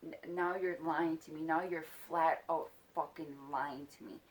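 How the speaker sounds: retold accusation, emphatic; mildly heated, leaning on the words; pissed off. Child accusing him of lying, pissed off. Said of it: "I'm pissed off".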